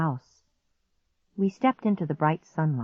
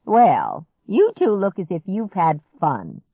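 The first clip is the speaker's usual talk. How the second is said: chirpy; 3 semitones higher, 5 dB louder than usual. Acted. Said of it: "Grandma chirped".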